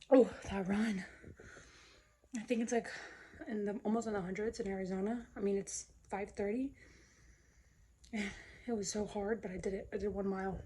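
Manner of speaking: out of breath after running; after a workout. Real, not acted. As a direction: still winded, catching breath. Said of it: "let me catch my breath".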